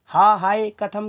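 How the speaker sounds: loud, drawn-out wail of dismay, lightly acted; stretched-out cry of alas; mock lamenting cry. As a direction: recite it as a slow, loud lament. Acting out Sita's lament.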